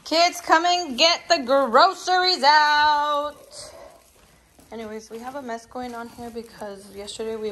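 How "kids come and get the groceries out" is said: calling out. Real, not acted. Calling kids from another room.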